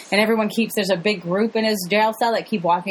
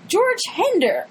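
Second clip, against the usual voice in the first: newscaster voice; 10 semitones higher, slower than usual. Retold or imitated. Newscaster mangling name.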